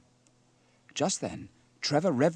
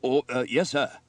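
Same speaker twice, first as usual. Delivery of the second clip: sheepish, hesitant reply to a superior; a touch of forlorn embarrassment, louder than usual; 3 semitones higher, 8 dB louder than usual. Acted. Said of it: "replied Trevor forlornly".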